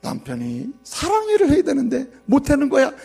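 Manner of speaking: normal talking voice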